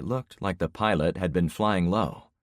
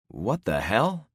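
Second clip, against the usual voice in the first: stunned blurt; 4 semitones higher, slower than usual. Acted. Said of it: "I blurted".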